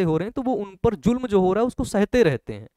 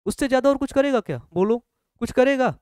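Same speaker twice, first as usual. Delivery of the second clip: emphatic challenge; 6 semitones higher, 3 dB louder, faster than usual. Retold or imitated. Challenging brother's fear, retold.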